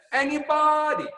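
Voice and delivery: high, bright exclaim with a laugh; Jim Rohn's answer. Retold or imitated. Quoting Jim Rohn to the Zoom call, laughing and high. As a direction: toss it off as a joyful answer. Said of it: "Mister Jim Rohn would say".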